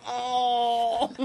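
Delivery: high drawn-out mock "ohh". Ken reacts to his stabbed hand, mock cry. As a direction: imitate a high, drawn-out cry through laughter. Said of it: "Ken just goes".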